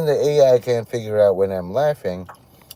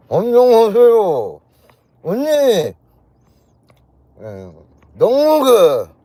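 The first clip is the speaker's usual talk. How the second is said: much higher, louder, fast nasal mock Korean; 10 semitones higher, 7 dB louder than usual. Showing how Koreans talk with food, shrill nasal mock Korean. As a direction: squeal the Korean greeting through the nose, pitched way up. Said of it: "speak through their nose".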